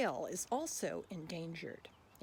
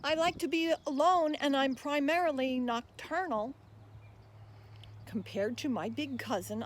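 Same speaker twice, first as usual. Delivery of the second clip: louder, bouncy rhyming voice of the tapir; tapir reciting; 3 semitones higher, 5 dB louder than usual. Acted. Tapir pleading with listeners to be saved, lively recital. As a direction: speak as the friendly tapir asking for help. Hippo speaks its poem.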